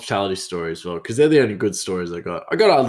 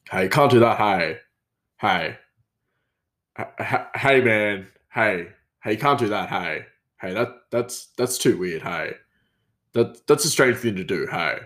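lightly voiced chef, a "hey" on every phrase; imitating the hey guy. Mimicking the chef telling someone off, hey after every line. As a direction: mimic a coworker who tacks "hey" onto every sentence. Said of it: "he always said, "Hey," after every sentence".

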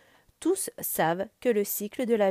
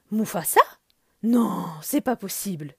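breathless; 4 dB louder than usual. A narrator's reading. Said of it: "dit-il le souffle coupé".

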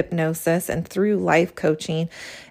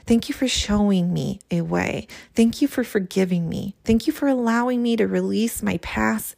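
heartfelt journal reading. Acted. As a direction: read each line as a gentle apology to your own soul. Reads step three aloud.

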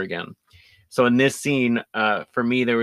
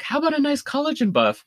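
high, fake French accent, nice and sweet; a spa girl's fake French accent, pitched up. Spa attendant offering Madeline a treatment in fake French accent. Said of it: "faking a French accent".

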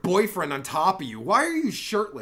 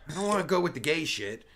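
ordinary talk, nothing marked

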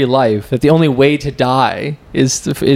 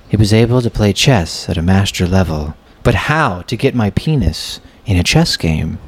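mock memoir narration; 3 semitones lower than usual. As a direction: narrate your life story with hammy gravity.

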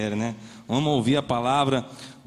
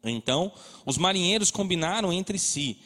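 steady, solemn Bible reading; scripture reading. Acted. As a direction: read the passage to the church. Reads Jonah chapter aloud.

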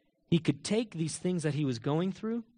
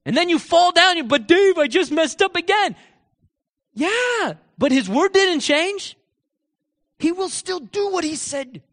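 loud, high preaching at full force; impassioned preaching; 12 semitones higher, 9 dB louder than usual. Acted. Preacher urging listeners to keep saying God's promise, impassioned. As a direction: preach it hard, drawing out the key phrases.

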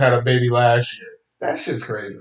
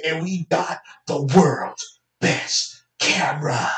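mock Apple announcer; 3 semitones higher, slower than usual. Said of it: "They just say".

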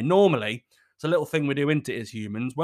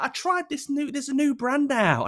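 high-pitched mock explanation; put-on, sheepish excuse; confessing missus; 12 semitones higher, 3 dB louder than usual. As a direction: imitate a partner owning up in a raised voice.

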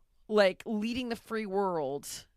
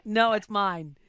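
high, loud, playful whining; hammed-up grab for the prize; mock grabby; 5 semitones higher, 13 dB louder than usual. Playfully claiming something from a friend, loud and high.

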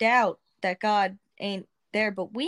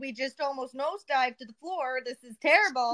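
mock angry retort; 4 semitones higher than usual. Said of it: "she got mad at me".

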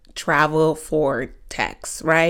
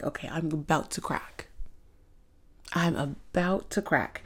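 holding in laughter; 3 semitones lower, 11 dB quieter than usual. Retold or imitated. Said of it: "I'm like".

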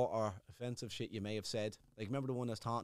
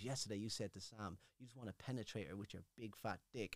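quiet, lower, flat reading of facts; monotone voice; 5 semitones lower, 13 dB quieter than usual. Retold or imitated. Diary room voice repeating his words, mock monotone. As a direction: drone it like a bored official. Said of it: "they had that monotone voice".

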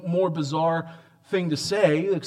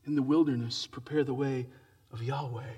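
softer, falling away to near silence; hushed repeat; 5 dB quieter than usual. Acted. Preacher repeating the prophecy to the congregation, quiet and reverent. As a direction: let it drop to a reverent hush.

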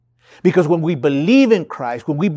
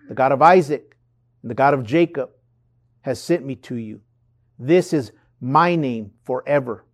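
scripture reading; 3 semitones lower than usual. Acted. Reads Exodus passage aloud.

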